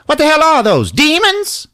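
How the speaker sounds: high squeak. Retold or imitated. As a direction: squeal it in disbelief. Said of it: "Chitch Pounder's like".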